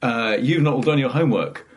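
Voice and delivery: loud, slowing mock lawman; acted stern judge; Judge Dredd. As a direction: hand down a sentence, slowing at the end. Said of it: "and he'd kinda go".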